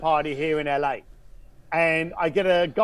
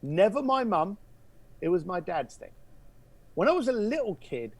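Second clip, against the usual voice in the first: softer, a touch of hushed confiding; goes quiet; 6 dB quieter than usual. Retold or imitated. Caller confiding his childhood memory, quietly. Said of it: "He goes quiet".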